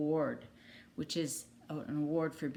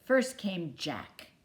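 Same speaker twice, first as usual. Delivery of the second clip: clear, lively storybook narration; reading to children. A narrator's reading. Teacher reading a picture book to young kids, storybook voice. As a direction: read it out like bedtime story time.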